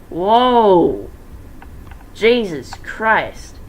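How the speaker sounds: loud high gasp of shock; shocked exclaim. Real, not acted. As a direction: react to the gruesome sight. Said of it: "reacting to the gore".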